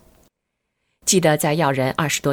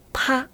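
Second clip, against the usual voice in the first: sudden high-pitched "pa"; imitated slap sound; 11 semitones higher than usual. A narrator's reading. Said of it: "他突然一拍大腿".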